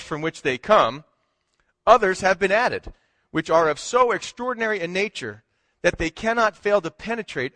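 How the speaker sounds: measured, formal reading of a historic text; formal proclamation reading. Acted. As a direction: read it like an official decree to the congregation. Reads Lincoln's proclamation aloud.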